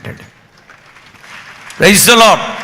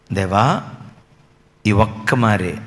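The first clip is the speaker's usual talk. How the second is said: much softer, lower, breaking plea; tearful plea; 8 dB quieter, slower than usual. Acted. Samson, bound to the pillar, begs God through tears. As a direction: let the voice break as you beg God.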